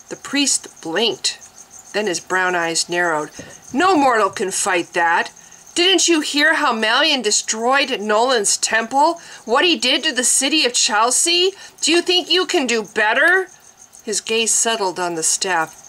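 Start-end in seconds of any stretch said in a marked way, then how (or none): 3.7-13.5 climbing higher, louder, urgent; each question pushed higher; mounting alarm. A narrator's reading. Priest insisting no mortal can fight, rising agitated voice.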